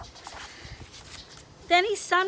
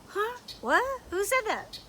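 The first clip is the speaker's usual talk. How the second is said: higher, startled little voice; startled lizard; 8 semitones higher than usual. Acted. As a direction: jump at a voice from nowhere. Leon startled by voice.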